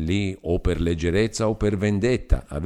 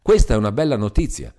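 louder, quick, happy; joyful; 2 semitones higher, 5 dB louder, faster than usual. Acted. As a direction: burst out with delight. Beatrice overjoyed at news.

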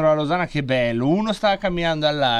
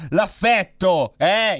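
mock indignant; 4 semitones higher, 4 dB louder, much slower than usual. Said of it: "si sente".

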